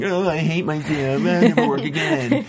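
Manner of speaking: high, whiny mock despair; mock self-loathing. Mocks self-critical actor watching himself.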